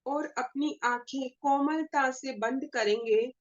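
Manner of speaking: measured meditation guide with long pauses; guided meditation. Acted. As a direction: lead the group gently into meditation, pausing between phrases. (ध्यान कराने वाली ठहरी हुई आवाज़)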